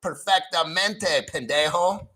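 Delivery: careful native-style Spanish pronunciation; Spanish accent. Shown as a demonstration. Boasting to call-centre workers of a practiced accent, Spanish accent. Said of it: "Practice your accent like I did".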